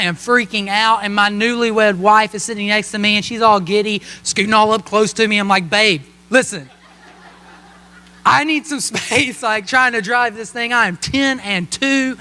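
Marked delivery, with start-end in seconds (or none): 5.7-10.7 laughing plea. Retold or imitated. Nervous driver telling giddy wife.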